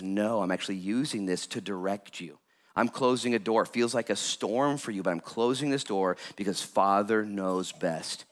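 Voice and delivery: calm, gentle divine reassurance; voice of God. Acted. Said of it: "And the Lord says".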